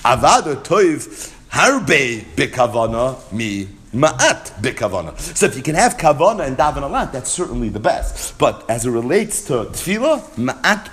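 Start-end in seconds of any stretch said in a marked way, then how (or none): 0.0-5.2 slow, deliberate weighing of words; unhurried, stressed recital; slow emphatic reading. Shown as a demonstration. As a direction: read it slowly, word by word. Slow emphatic quote of the source.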